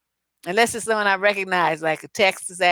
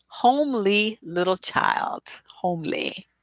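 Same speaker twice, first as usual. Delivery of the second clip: slow, hushed whisper; whispered insult; slower than usual. Real, not acted. Mocking the homely driver to listeners in a whisper. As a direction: whisper it like a secret dig.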